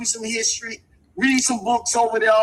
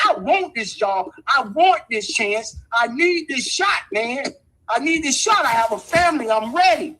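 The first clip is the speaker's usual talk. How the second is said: eager job applicant. Shown as a demonstration. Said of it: "you got to talk like".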